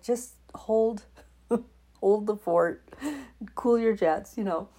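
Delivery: mock scold yourself with a laugh; laughing hold the fort; laughing self-talk. Retells her self-talk, laughing.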